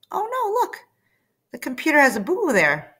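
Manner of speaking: high, quick "oh no" for a hurt toy; sympathetic reading voice. Acted. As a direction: coo over the little boo-boo. Narrator reacts to picture.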